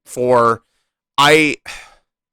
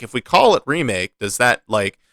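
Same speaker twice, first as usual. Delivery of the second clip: mock concerned question, higher and louder at the end; imagined worried objection; 4 semitones higher, 5 dB louder than usual. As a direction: raise a doubt, pitch climbing into the question. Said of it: "be like".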